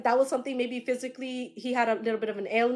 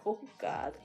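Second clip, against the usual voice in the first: breathy whispered aside; whispered oh God; 3 semitones lower, 11 dB quieter than usual. Retold or imitated. A medium whispering to herself over a spirit's cheek. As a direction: whisper it under your breath, overwhelmed.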